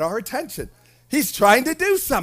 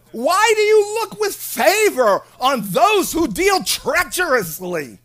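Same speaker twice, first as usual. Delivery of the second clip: preached reading; 8 semitones higher, 5 dB louder, slower than usual. Real, not acted. Reads Habakkuk's complaint at full force.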